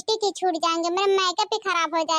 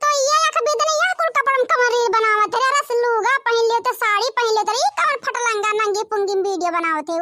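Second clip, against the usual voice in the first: lightly voiced old village mother-in-law; mocking mother-in-law; 2 semitones higher than usual. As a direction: scold her for the clothes. Mother-in-law scolding clothes.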